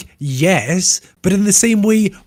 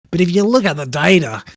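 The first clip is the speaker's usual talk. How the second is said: put-on Australian accent. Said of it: "Do it possibly in an Australian accent".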